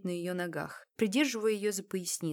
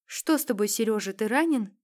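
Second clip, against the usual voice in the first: loud, higher anxious call; frightened call; 3 semitones higher, 7 dB louder than usual. Acted. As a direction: cry out to him in the dark. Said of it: "крикнула Ольга Мезенцеву".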